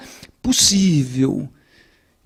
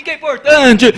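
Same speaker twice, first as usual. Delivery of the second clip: higher, much louder shout of importante; 8 semitones higher, 6 dB louder than usual. Shown as a demonstration. Lecturer showing a class how shouting startles, loud shout. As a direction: yell importante at the room. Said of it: "E se eu falar assim".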